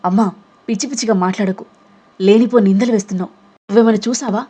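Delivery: daughter yelling at her mother over a false accusation; angry fast outburst; shouting back. Acted. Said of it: "అని గట్టిగా అరిచింది".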